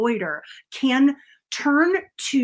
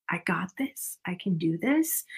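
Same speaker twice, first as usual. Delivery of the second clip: hushed inner pep talk, under the breath; murmured reassurance to self; quiet self-talk; 3 semitones lower, 9 dB quieter than usual. Shown as a demonstration. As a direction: say it softly to yourself. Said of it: "Doing it inside of your head".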